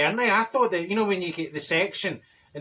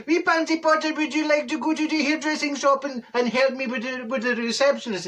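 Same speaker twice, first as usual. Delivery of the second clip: put-on much higher sing-song voice for a wee girl; talking to a child; 7 semitones higher than usual. Marjorie asking little Pansy Potter to help, higher baby-talk voice. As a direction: coo at the little one. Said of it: "I says".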